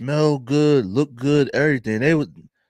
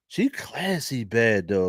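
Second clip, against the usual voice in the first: Philly accent; 3 dB quieter, slower than usual. Real, not acted. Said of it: "You can hear all my Philly accent".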